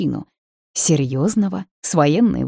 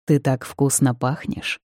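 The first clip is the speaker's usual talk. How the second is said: purring voice; 4 semitones lower than usual. Acted. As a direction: purr it close to her ear. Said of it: "мурлыкающим голосом".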